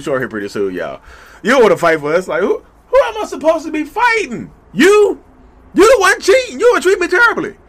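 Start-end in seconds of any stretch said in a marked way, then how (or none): 1.4-2.3 louder whining accusation; guilt-trip like a pouting partner; mock whiny narcissist. Skit, narcissist line. 2.3-7.6 much higher, louder indignant yelling; outraged shout. Acted. Skit, indignant reply.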